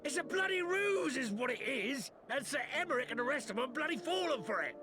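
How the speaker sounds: indignant rant, rushing at the end; angry scorn. Acted. Soldier rants that the peace is a ruse, angry. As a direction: spit out your disgust at the trick.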